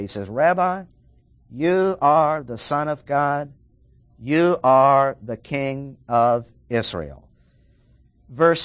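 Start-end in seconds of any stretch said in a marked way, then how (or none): 0.3-7.3 slow, loud, weighty declaration; emphatic confession. Acted. Preacher voicing Nathanael's confession, slow and emphatic. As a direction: proclaim each word like the strongest possible answer. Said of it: "responds in the strongest possible way".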